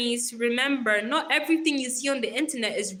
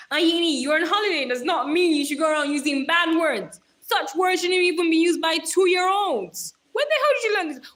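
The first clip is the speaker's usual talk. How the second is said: playful telling-off, louder and higher; mock scolding; 5 semitones higher, 5 dB louder than usual. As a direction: scold the kid like a half-serious big sister. Mock scolding a child in chat.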